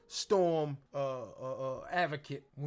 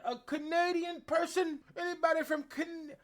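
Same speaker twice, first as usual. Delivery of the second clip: high, loud mock announcement; lightly hammed champion challenge; imitating Jade Cargill; 9 semitones higher, 3 dB louder than usual. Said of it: "Jade Cargill said".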